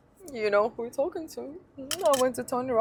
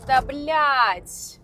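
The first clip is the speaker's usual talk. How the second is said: loud, higher Russian swear; exasperated curse; 4 semitones higher, 5 dB louder than usual. Real, not acted. Annoyed at the empty-handed boyfriend, loud swear. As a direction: spit it out in disgust.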